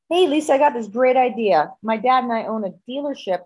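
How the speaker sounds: lightly mock his enthusiastic sales pitch; retold eager proposal; eager boyfriend pitch. Voices boyfriend pitching his idea.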